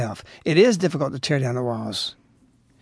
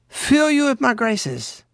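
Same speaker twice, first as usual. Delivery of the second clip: slow, higher, tender promise; a touch of tender; 5 semitones higher, slower than usual. Acted. Our Lady's message read to the faithful, lightly tender and slow. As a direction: soothe them like a mother.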